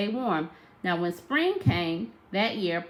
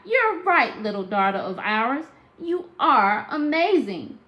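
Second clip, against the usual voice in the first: lightly voiced proud parents, higher; grinning parents; 4 semitones higher, 5 dB louder than usual. Parents grinning at their talking baby, lightly voiced. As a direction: beam at the baby as you agree. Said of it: "Then they grinned real wide".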